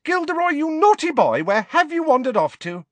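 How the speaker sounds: put-on high, carrying call to a child; motherly healer calling. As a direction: call out like a fussy nurse. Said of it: "a voice called".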